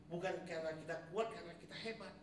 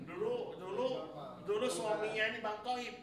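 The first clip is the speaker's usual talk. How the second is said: higher, louder, slowed mock wonder of a wife; amazed wife; 7 semitones higher, 7 dB louder than usual. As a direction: play the astonished wife marvelling. Voicing wife's amazed thoughts.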